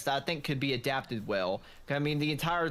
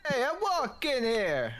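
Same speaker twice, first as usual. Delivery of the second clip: hammed-up yell; 9 semitones higher than usual. Joker quoting a film at his friend, hammed-up yell. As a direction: holler it as a hammed-up movie quote. Mimics famous movie line.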